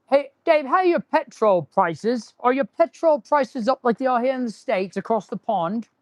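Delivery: amateur British accent; playful attempt at sounding British. Shown as a demonstration. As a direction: put on a light mock-British accent. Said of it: "That's my British accent".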